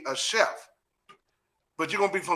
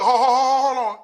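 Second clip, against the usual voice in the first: laughing; 6 semitones higher, 6 dB louder than usual. Real, not acted. Interrupting, laughing.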